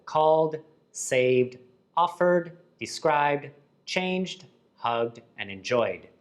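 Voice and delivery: "called, saved, offered" ending in voiced "d". Shown as a demonstration. Teacher lists voiced examples, each ending sounded as "d". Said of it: "we add d".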